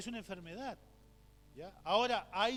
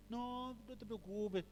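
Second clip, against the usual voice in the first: slow, higher-pitched soothing retelling; reassuring; 4 semitones higher, much slower than usual. Retold or imitated. Pastor comforts an embarrassed churchgoer, lightly reassuring. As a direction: gently wave away the worry, drawing it out.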